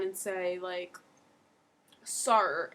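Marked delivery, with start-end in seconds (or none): 2.0-2.7 exaggerated r-coloured "Sir"; "Sir" with a heavy r ending, as a bad imitation; wrong Aussie O. Shown as a demonstration. Tutor mocking failed attempts at an Aussie accent, wrong r-heavy O. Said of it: "and it's not that".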